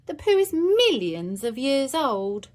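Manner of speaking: calm the others like a tiny professor; reassuring expert kid. Acted.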